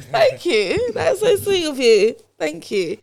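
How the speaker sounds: high, teary laughing through thanks; laughing while choking up; emotional laughter. Real, not acted. Host moved by a guest's note, laughing and near tears. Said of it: "why am I getting emotional".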